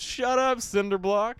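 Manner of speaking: loud, high mock scolding; hammed-up exasperated shout; mock angry shout. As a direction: yell it as the fed-up mom in a joke. Mom snaps at daughter in joke.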